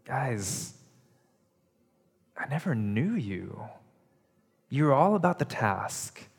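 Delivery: gentle, sorrowful voice of a let-down friend; heartbroken. Retold or imitated. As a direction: speak it as a friend whose heart is breaking. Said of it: "I read it like Jesus' heart is breaking".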